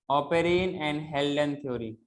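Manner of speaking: very slow, each word separate; slow dictation. Shown as a demonstration. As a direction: dictate the name for notes. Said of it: "dictating theory name".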